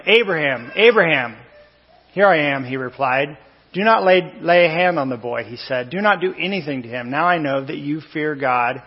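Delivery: measured, deliberate Bible reading; slow scripture reading. Real, not acted. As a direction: read the passage slowly, dwelling on key phrases. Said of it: "I'm gonna read it slow with you today".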